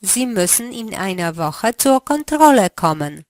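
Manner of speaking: ordinary talk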